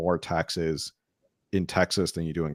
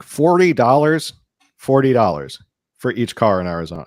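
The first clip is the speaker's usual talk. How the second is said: high, loud, stretched-out disbelief; retold astonished outburst; incredulous; 4 semitones higher, 7 dB louder than usual. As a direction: echo the price in amazement. Retells own shock at low price.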